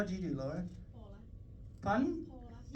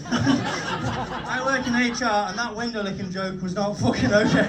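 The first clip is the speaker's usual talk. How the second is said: louder mock-stern HR voice, slow at first; lightly voiced HR officer scolding; a hint of a stern complaints officer; 3 semitones higher, 9 dB louder, slower than usual. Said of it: "You said that like you had had complaints about me".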